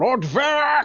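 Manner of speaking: loud, slow, high-pitched yelling. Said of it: "so you start yelling".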